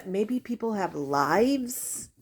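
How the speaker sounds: slow dry sarcasm; dry sarcastic. Real, not acted. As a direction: say it slowly and dryly. Dry retort.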